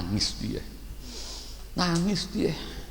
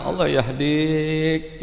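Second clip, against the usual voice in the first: gentle prayer; 8 semitones higher, 3 dB quieter, much slower than usual. Shown as a demonstration.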